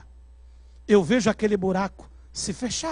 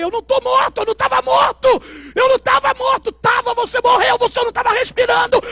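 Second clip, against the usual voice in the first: insistent shouting; 12 semitones higher, 5 dB louder than usual. Retold or imitated. Arguing he was not dead.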